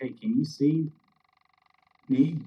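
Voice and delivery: hushed, whispered voice. Playing a character who whispers a question to Rainier in the shadows: whispering. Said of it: "I'll just whisper to Rainier and be like".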